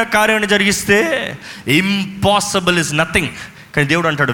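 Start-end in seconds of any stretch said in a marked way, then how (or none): 1.7-3.3 slow slogan. Real, not acted. Slogan, drawn out slowly.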